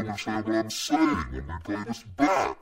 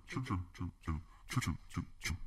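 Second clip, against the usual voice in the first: fading whisper; 3 semitones lower, 15 dB quieter, faster than usual. Real, not acted. Repeating word, fading out.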